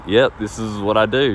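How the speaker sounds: matter-of-fact, assured statement; confident. Shown as a demonstration. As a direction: say it with easy confidence. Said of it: "with confidence saying that".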